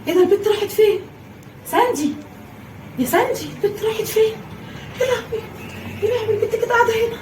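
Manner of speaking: high anxious cries; worried mother searching; frantic search. Acted. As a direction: panic while searching. Searching frantically for lost girl.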